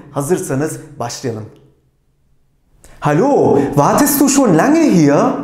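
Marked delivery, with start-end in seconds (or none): 3.0-5.3 loud, clear German line for the class to answer; loud prompt for learners. Shown as a demonstration. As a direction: call the line out for students to reply. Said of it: "sol tarafla ben başlayayım".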